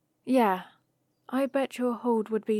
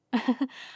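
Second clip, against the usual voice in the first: brief light chuckle; quick chuckle before going on; amused chuckle; 3 semitones higher than usual. Acted. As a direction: give a short, amused little laugh. Amused by dragon's curiosity.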